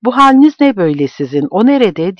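demanding to know what happened; alarmed question. Acted. Grandfather alarmed at crying family. (telaşlı, hızlı soru)

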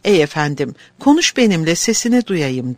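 choked, tearful plea; sobbing. Acted. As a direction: beg through sobs. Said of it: "hıçkırıklarla boğulmuş ve tekrarlamış".

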